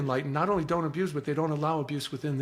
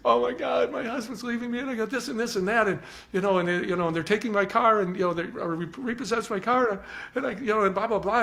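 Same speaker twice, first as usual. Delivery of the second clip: high-pitched, hurried mock distress; crying; 6 semitones higher than usual. Upset mother unloading her problems to a stranger, imitated crying. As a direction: imitate an upset woman pouring out her troubles. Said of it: "she just started crying".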